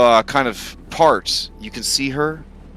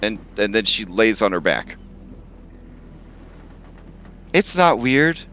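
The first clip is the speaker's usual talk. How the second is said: dragon voice; 2 semitones higher than usual. Acted. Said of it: "this is my dragon voice now".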